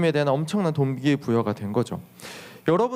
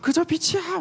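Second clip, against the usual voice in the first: high-pitched gushing awe; amazed exclamation; 10 semitones higher than usual. Acted. Disciples marvel at Jesus shining like light, amazed. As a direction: exclaim in wonder, pitch soaring. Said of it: "막 이렇게 감탄을 했죠".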